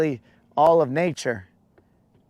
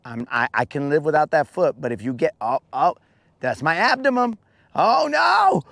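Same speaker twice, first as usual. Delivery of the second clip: bargain, then shriek at losing the abdomen; bargaining bug turning to panic. Pretend. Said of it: "I'd be like".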